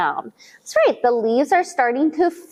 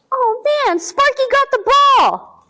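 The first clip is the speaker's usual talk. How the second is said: mock dismay; 11 semitones higher, 3 dB louder than usual. Dog steals the ball.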